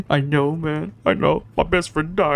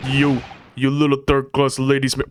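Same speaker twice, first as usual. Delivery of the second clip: attempted gruff Russian sailor; badly faked Russian accent. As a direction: grumble with a clumsy Russian accent. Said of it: "I cannot do a Russian accent".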